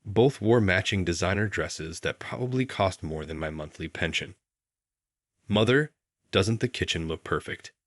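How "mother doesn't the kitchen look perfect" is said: hammed-up proud daughter; beaming. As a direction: show off the kitchen to her mother. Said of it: "Victoria beamed".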